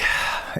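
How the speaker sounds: audible breath out, acting the leader; imitated heavy sigh. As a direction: heave a sigh before speaking. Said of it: "he's like".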